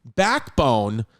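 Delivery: punchy pitchman delivery with stretched brand names; hard-sell the product straight at the listener; emphatic podcast sponsor read. Acted. Reads a sponsor ad.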